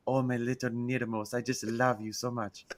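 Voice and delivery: a light, badly faked Irish accent; attempted Irish accent. Irish guy gushing to his gaming friend, attempted Irish accent. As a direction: try a soft-spoken Irish impersonation. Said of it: "there was this Irish guy".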